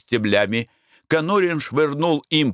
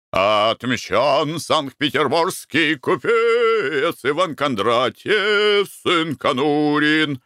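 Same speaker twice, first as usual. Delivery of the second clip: mock triumphant proclamation; 5 semitones higher, much slower than usual. Triumphant proclamation after revenge.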